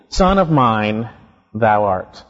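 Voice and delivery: SON OF MINE drawn out slowly, then THOU ART dropping low; weighty, deliberate stress on "Son of mine"; emphatic. Retold or imitated. Preacher quoting the Father's declaration to the Son, emphatic. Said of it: "he says here emphatically".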